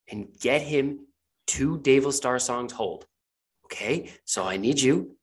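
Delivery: strained patience, spelling it out piece by piece; exasperated boss. Acted. Sylvie presses Edwin about the book working, exasperated. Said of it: "you hear the voice say".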